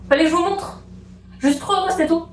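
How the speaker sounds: bubbling over with joy; giddy excitement. Real, not acted. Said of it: "j'ai eu un pic d'excitation".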